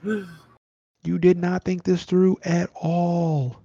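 put-on slow, hushed scolding of the dumb kids; mock scolding. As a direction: sneer at the kids under your breath. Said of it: "It's like".

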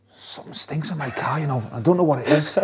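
lightly acted baffled grumble; a hint of bafflement, pitch lifting at the end; puzzled kit man. Kit man complaining about his stinking car, mildly baffled.

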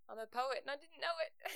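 giggling through the rhyme; tickled by her own joke; laughing. Acted.

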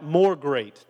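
crying out. Retold or imitated. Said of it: "but he cried out".

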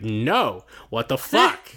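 exasperated Rachel. Retold or imitated. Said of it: "she'd be like".

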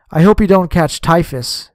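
ordinary delivery, nothing marked

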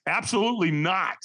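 mildly irritated, firm refusal; ticked off. Retold or imitated. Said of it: "I kinda gave him a tone, like I was a little ticked off".

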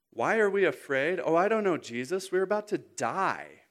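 hammed-up indignant comeback; mock incredulous. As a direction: answer a dumb question with exasperation. Sarcastic imagined reply to dumb question.

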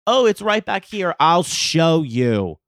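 high, loud, gushing offer; mock-chirpy male stranger; eager helpful guy. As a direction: imitate an over-eager helper, drawing out the end. Imitates the eager guy's offer.

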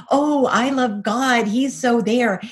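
mock-sweet voice mocking the believer she used to be. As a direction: parrot her naive past self, slowly. Mocking her former naive self.

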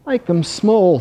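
high, small ant voice; tiny ant. A narrator's reading. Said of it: "said the ant".

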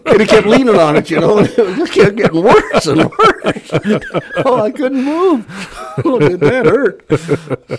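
high, loud voice breaking into laughter; laughing hard. Real, not acted. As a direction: tell it while cracking up. Retelling painful story, cracking up laughing.

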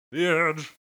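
loud, booming name call; dramatic announcer. Pretend. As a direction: boom it out like an announcer. Joking about The Edge.

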